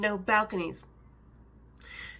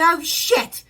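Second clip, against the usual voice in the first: louder English gasp, pitched up; mock alarmed English accent; alarmed English lady; 5 semitones higher, 7 dB louder than usual.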